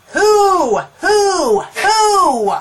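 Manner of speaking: three high, loud "whoo" hoots; hammed-up hoots. Worn-out fighter in her corner, hammed-up high hooting. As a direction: hoot it high, falling off each time. Fighter catching breath between rounds, voiced aloud.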